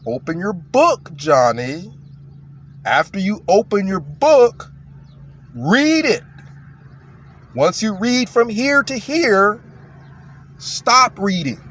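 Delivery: over-enunciate each step for a slow pupil; patient teacher voice, paused between steps; slow special-ed teacher. Acted. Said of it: "teachers talks a little bit slower".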